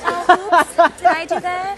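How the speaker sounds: mock innocent oops. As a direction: play coy and faux surprised. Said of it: "I'm like".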